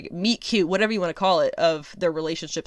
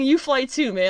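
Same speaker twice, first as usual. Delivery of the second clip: laughing quote; 6 semitones higher than usual. Retold or imitated. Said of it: "he's basically saying".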